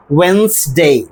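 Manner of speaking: Wednesday as wenz-day, two syllables; Wednesday with no D, falling tune; correct Wednesday. Shown as a demonstration. Teacher repeating the correct Wednesday. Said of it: "it will be correct".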